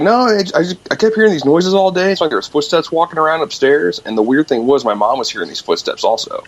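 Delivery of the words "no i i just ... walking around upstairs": higher-pitched insistent retelling of grandpa; grandpa quoted. Retold or imitated. Granddaughter retelling grandpa's account of strange noises, in a raised quoting voice. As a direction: imitate a grandpa protesting, voice pitched up. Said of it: "he's like".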